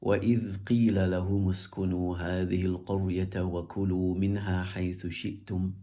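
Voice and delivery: measured Quranic chant on a level tone; even, melodic recitation. Shown as a demonstration.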